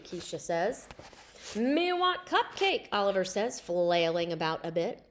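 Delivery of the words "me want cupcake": slow, high, hungry monster voice; Cookie Monster voice. A narrator's reading. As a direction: mimic Cookie Monster begging. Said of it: "Cookie Monster who talks like that".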